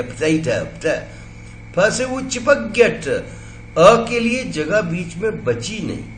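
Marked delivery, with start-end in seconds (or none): 0.0-0.6 पोटैटो as ph'TAY-toh, first vowel gone; पोटैटो run together without a schwa; aspirated P. Shown as a demonstration. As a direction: puff the P of पोटैटो straight into the T. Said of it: "प को फ कर दिया".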